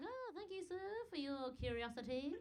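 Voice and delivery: high, overly sweet thanks; sarcastically polite, lilting up high; mock gratitude. Comic thanking a rude stranger, mock gratitude.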